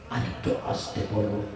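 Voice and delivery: mock whisper to the crowd. Shown as a demonstration. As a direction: breathe it as a hushed request. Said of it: "যত আস্তে করে বলতে বলো". (ফিসফিস করে অনুরোধ)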